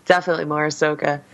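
wheezy from a chest cold; slightly wheezy, congested speech. Real, not acted. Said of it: "I'm sorry I'm so wheezy today".

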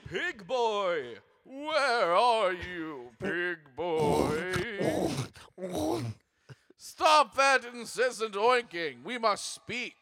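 slow, drawn-out ghost call; haunting voice calling out; ghostly voice. Acted. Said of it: "a ghostly tone to your voice".

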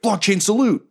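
high-pitched, exuberant salute cry; mock salute. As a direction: call it out like a silly secret-club salute. Triumphant mock salute called out.

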